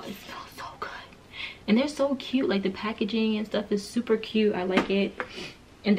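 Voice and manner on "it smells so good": hushed, unvoiced confiding whisper. Real, not acted. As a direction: whisper it like a secret. Confiding to viewers.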